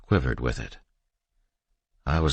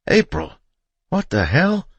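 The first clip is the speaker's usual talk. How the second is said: high, loud, shocked yell; startled shout; 6 dB louder than usual. A narrator's reading. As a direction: cry out just after a near miss. Just shot at, jumping back.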